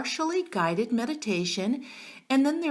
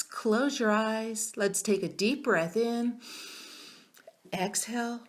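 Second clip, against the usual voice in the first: guided meditation. Acted. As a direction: guide them gently into calm.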